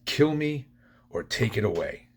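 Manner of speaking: a held-back reenactment of screaming desperation; retold desperate scream. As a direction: cry out to God in mock scream. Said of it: "screaming at the top of my, my lungs".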